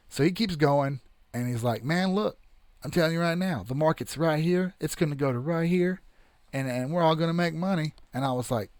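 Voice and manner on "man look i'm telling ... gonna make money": a hint of a New York accent, pitched higher; mock New York investor. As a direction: lightly imitate the New York salesman hyping the market. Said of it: "He's got that accent".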